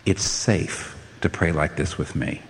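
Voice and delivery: low, soft and slow invitation; gentle reassurance. Acted. God telling the desperate they may pray, gentle reassurance. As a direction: reassure softly, leaving space after the first words.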